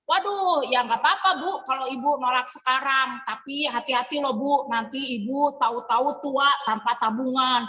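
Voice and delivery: veiled warning. Retold or imitated. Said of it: "Misalkan gini lagi nih".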